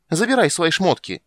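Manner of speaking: high, loud yell; angry shout. Acted. Blonde shouting at the poet to take his things. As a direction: hurl the words down with his things. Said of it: "крикнула блондинка".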